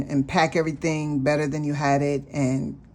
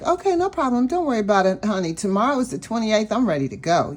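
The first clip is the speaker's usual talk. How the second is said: breezy cheerful reassurance; 5 semitones higher, faster than usual. Retold or imitated. Cheerful brush-off to apologizing clerk.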